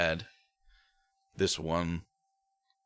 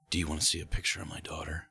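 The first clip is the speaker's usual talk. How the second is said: lightly deepened voice for a quoted woman; quick, mildly put-on deep voice; 4 dB quieter, faster than usual. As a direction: imitate her in a slightly low, hurried voice. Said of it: "With that deep voice?".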